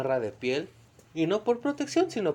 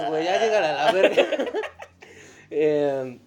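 laughing; 3 semitones higher, 8 dB louder than usual. Real, not acted. Laughing burst.

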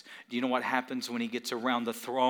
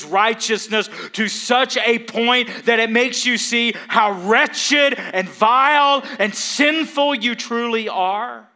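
higher, louder sermon climax; preaching at full force; 10 semitones higher, 12 dB louder than usual. Acted. Pastor to congregation about Isaiah seeing God's holiness, preaching at full force. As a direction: drive the question home, shouting.

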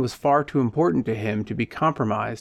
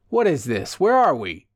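nervous; 3 semitones higher than usual. Acted. Passenger in the parked car asks nervously where they are. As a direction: panicky questions, voice climbing. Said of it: "nervously inquired the brawny man".

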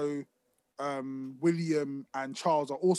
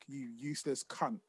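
quiet hammed-up fatherly contempt; mock disgusted dad; 3 semitones lower, 3 dB quieter than usual. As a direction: sneer it like a fed-up dad. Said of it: "my dad just looking at me like".

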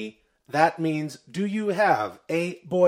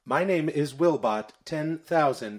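flat, even robot announcer; 4 dB quieter than usual. Acted. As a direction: speak like a podcast robot. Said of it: "I am a robot".

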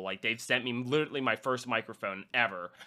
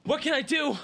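mock groveling. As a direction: fawn over a rude critic, overdone. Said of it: "I'm not gonna be like".

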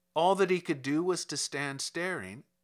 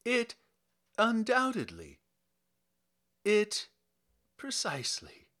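awed murmur; 6 semitones higher than usual. A narrator's reading. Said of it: "he said at length".

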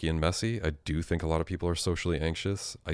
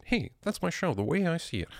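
much higher, hammed-up announcer voice; mock show announcer; 13 semitones higher than usual. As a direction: sell the show title like a jingle. Announces his own show title.

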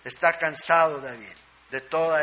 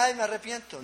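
mock hollow repentance; 5 semitones higher, 4 dB quieter than usual. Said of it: "No solamente".

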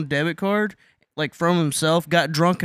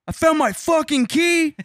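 excited discovery; 11 semitones higher than usual. Retold or imitated. Excited discovery of lost key.

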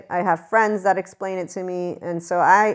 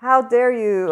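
imitating an affronted friend, raised a little; mock-wounded comeback, higher pitch; retold hurt indignation; 4 semitones higher, 4 dB louder, slower than usual. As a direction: act out the hurt friend's protest. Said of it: "They were genuinely hurt emotionally".

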